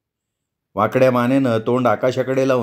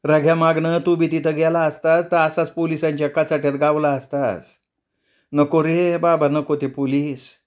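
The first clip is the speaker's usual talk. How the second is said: put-on old mother pleading, on the verge of crying; near tears; 3 semitones higher than usual. Amma fears the police, close to tears and pleading. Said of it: "असं म्हणत ती आता रडकुंडीला आली".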